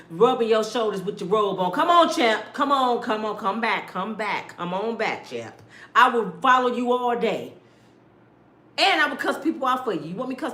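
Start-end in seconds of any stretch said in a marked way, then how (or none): 1.7-5.5 loud cornerman urging the champ on; a loud cornerman coaxing his champ back; corner coach hype. Pretend. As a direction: pump up your fighter between rounds. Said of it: "I'll be like you coming out to fight Tyson".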